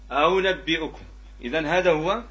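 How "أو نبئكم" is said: أو with second hamza softened toward a w; eased second hamza. Shown as a demonstration. Teacher modelling tashil with damma, أو with hamza near waw. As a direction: let the hamza in أو نبئكم slide halfway into waw. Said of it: "هو التسهيل".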